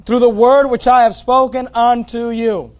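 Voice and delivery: verse repeated, leaning firmly on "Word"; stress on WORD. Shown as a demonstration. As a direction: bring out "Word" as the key term. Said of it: "Notice the emphasis on the Word".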